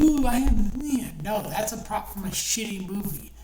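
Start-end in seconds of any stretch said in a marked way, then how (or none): 0.0-1.2 mocking a smug fan. Sneering at a fan bragging over a cheap prop, mock-proud and loud. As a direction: ham up a fan showing off a movie prop. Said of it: "And you go".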